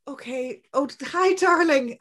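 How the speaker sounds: mock-bright cheerful greeting; fake calm. Shown as a demonstration. Parent to upset child at bedtime, faking sweet calm. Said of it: "just even fake it and kind of go".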